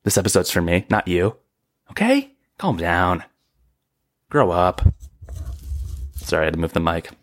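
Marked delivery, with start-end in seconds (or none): 1.9-4.8 sassy. Acted. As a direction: toss it at the audience with attitude. Mock snapping at listeners.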